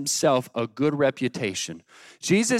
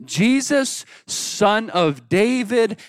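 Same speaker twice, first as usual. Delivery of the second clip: high, drawn-out call at ordinary volume; mock shout; 3 semitones higher, much slower than usual. Blind man calling out to Jesus, mild mock shout. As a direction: stretch the names out like a mild cry. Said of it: "He began to shout and cry out".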